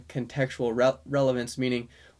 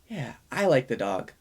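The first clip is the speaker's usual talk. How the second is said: subtle recast. Shown as a demonstration. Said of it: "very subtle".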